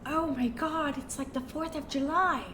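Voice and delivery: lightly voiced spoiled socialite; dreamy rich lady musing; Jennifer Coolidge voice. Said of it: "my bad Jennifer Coolidge impression".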